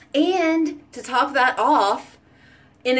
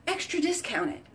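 quiet emphatic repeat; 7 semitones higher, 9 dB quieter than usual. Real, not acted. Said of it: "And it's extra discounted".

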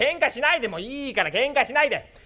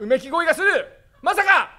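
shocked; 9 semitones higher, 5 dB louder than usual. Acted. Hearing groans from back room.

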